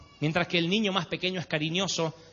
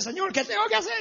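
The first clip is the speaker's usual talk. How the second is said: pleading prayer. Retold or imitated. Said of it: "Yo estaba en la presencia".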